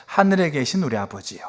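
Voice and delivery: unhurried, gentle call to the Father; prayerful address. Retold or imitated. Jesus teaching the disciples to pray, reverent and unhurried. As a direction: speak it as prayer, taking time. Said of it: "예수님이 기도하세요".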